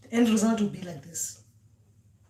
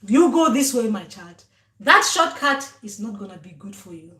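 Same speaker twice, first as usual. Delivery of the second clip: put-on a louder, firm elder voice calling her child; ancestor guiding; 5 dB louder than usual. Ancestors redirecting their child, firm and guiding. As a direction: steer the child gently but firmly. Ancestors steering the dream car.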